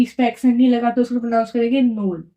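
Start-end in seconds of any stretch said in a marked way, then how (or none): 1.8-2.3 "नोल" with o and e as one sound; vowels run together. Shown as a demonstration. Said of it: "दोनों को साथ में". ("नोल" दोनों स्वर साथ में)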